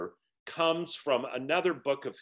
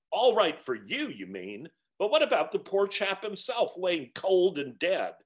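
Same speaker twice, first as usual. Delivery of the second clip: higher and louder, bitter; indignant ghost; 6 semitones higher, 4 dB louder than usual. A narrator's reading. Ghost protests for the dead man, indignant. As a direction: hurl the question at the spirit.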